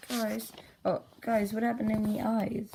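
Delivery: high-pitched appeal to friends; mock distressed character. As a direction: call out in high cartoon dismay. Acted character alarmed about eyes.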